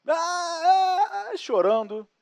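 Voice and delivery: choro de criança imitado, bem agudo; mock child crying. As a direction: imitando criança chorando, voz aguda. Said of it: "criança chorando". (choro fingido de criança perdida)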